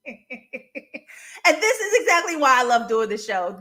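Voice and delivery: slow, through real laughter; laughing. Real, not acted. Host delighted by chat, laughing as she says it. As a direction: let the laugh carry the line.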